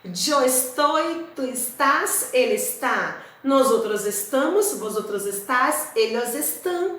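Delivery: careful teacher's Spanish, each form set apart; Spanish conjugation drill. Shown as a demonstration. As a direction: model the forms for the class to repeat. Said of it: "E com o verbo estar, vamos conjugar?". (conjugação em espanhol, pausada e didática)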